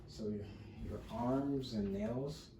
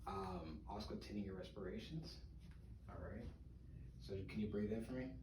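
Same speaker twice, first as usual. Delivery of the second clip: hushed voice; 2 semitones lower, 12 dB quieter than usual. Real, not acted. Quietly coaching breaths while listening.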